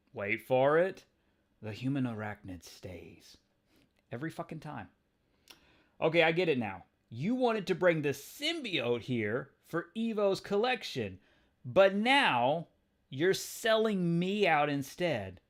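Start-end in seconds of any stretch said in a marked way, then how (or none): 1.6-3.4 a lightly voiced scheming scientist; menacing villain voice. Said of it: "What kind of voice does he get?". 6.0-15.4 higher, louder, slowed sarcastic jab; Spider-Man calling out a betrayal; wisecracking hero. Acted. Peter voiced in comic read.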